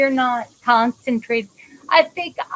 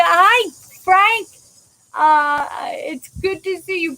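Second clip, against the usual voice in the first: calling out; 4 semitones higher than usual. Real, not acted. Greeting a viewer joining.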